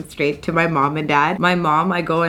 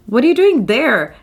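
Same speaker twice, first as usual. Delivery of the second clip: higher, louder mock dad demanding; imitating her dad; 7 semitones higher, 6 dB louder than usual. Vlogger mimics dad grilling her on the phone, higher mock voice. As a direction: play the suspicious father.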